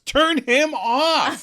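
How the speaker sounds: high, slow, drawn-out suggestion; deadpan suggestion. Retold or imitated. Phoebe suggesting they switch Joey off, slow and high. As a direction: stretch it out dreamily. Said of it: "and suggests".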